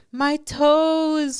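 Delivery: put-on high, babyish voice of a crying unborn child. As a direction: squeak it out like a tiny sad baby. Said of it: "like, a baby voice".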